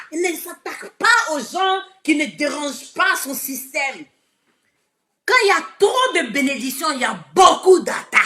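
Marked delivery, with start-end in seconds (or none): 5.2-8.2 emphatic shout. Real, not acted. Preaching about blessings and attacks.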